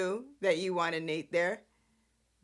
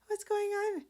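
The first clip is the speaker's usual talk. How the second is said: much higher-pitched mock alarmed question; Victoria; 12 semitones higher than usual. Boss walking in on two men arguing, high-pitched imitation. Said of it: "that's when Victoria walks in".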